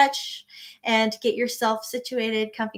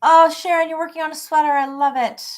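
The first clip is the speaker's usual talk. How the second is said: delighted; 6 semitones higher, 5 dB louder, faster than usual. Real, not acted. Delighted at viewer's sweater project.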